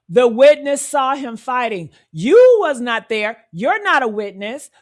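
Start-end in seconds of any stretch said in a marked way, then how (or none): 2.1-4.7 loud rebuke. Real, not acted. Scolding the commenter who was not there, loud. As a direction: snap it louder at the commenter.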